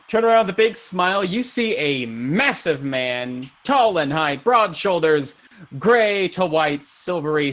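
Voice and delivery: slow, emphatic character description; dramatic scene-setting with stretched words; game master narration. A narrator's reading. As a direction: paint the imposing figure.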